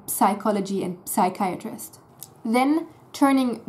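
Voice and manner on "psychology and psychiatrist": "psychology" and "psychiatrist" with the P spoken; sounded P in psychology. Shown as a demonstration. Teacher shows the German mistake, P sounded. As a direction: pop the P at the start of "psychology". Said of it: "Germans will end up saying".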